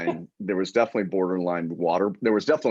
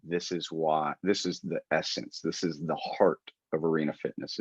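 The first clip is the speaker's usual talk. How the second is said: softer, hushed declaration; a touch of reverence; 3 semitones lower, 5 dB quieter than usual. Retold or imitated. Gym owner recalls a moving moment, hushed. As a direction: say it softly, like a quiet realization. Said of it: "I come back and I go".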